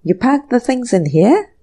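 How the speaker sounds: groaning. Acted. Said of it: "groaned Anthony".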